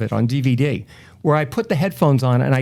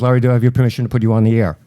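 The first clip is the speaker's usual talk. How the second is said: brisk request; 4 semitones lower, 5 dB louder, much faster than usual. Retold or imitated. Voicing radio reporter's quick request.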